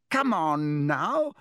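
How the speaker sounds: high, slow, loud call; shouting. A narrator's reading. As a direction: call out to the class over chaos. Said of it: "Lockhart shouted".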